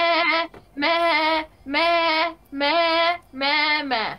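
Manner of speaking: a string of goat baas; goat bleat. Pretend. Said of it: "कितना अच्छा बकरी".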